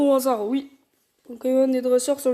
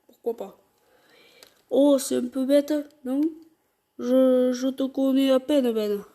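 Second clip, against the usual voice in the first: put-on mild southern French accent; 4 dB louder than usual. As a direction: play Flora with a southern French twang. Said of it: "voix grave, plus accent du sud".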